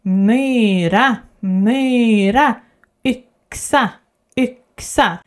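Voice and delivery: myra with a rounded E vowel; Swedish Y. Shown as a demonstration. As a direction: yxa starting with a rounded E. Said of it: "you will get the sound Y".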